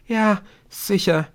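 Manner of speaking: put-on high girl's voice, calmer now; composed but still high-pitched; almost reasonable again. A narrator's reading. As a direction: regain some composure. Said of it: "Jetzt klang sie fast wieder vernünftig".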